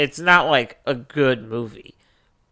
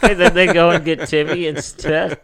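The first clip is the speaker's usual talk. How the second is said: laughing; 4 semitones higher, 6 dB louder than usual. Real, not acted. Laughing at the punchline.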